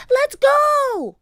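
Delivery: very high, loud call; urgent cry. A narrator's reading. Annie urging Jack to leave the storm, crying out. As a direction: call out to hurry a companion. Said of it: "cried Annie".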